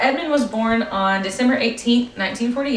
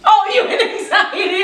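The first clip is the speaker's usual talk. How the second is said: high, loud surprised question; 10 semitones higher, 4 dB louder than usual. Real, not acted. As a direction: realise it suddenly, amused. Surprised realisation.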